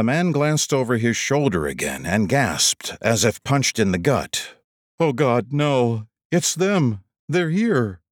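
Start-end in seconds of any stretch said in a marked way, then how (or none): 5.0-8.0 rising panicked voice. A narrator's reading. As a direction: gasp it out in terror. Stranger sees pursuers.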